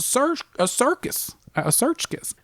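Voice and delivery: high rising circus; excited reveal. Real, not acted. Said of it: "ready for this?".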